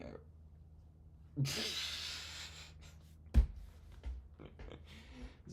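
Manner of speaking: real burst of laughter; laughing. Real, not acted. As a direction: crack up at your own remark. Amused by his own hamburger claim.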